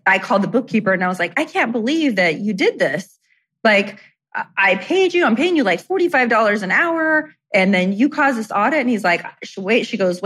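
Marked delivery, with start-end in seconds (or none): 1.4-8.8 high, indignant rant about paying her; angry complaint. Retold or imitated. On the phone blaming her bookkeeper for the audit, indignant and high. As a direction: lay into the bookkeeper, outraged.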